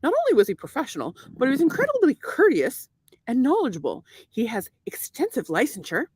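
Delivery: put-on formal testimonial in a vaguely Irish accent. Praising banker to the caller, put-on Irish accent. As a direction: recite the praise with an affected Irish precision. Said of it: "tell me what kind of accent".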